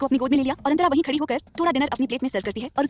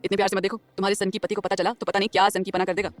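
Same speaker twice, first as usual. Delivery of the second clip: lower, easy male voice; smiling young man; 6 semitones lower than usual. A narrator's reading. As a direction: lower male character voice, friendly.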